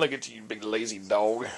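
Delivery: low, fond teasing to the dog; teasing pet talk. Real, not acted. Owner teases his lazy Labrador in bed, low fond pet talk.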